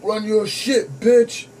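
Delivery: a light imitation of a woman yelling; female voice. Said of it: "it was a female's voice saying that".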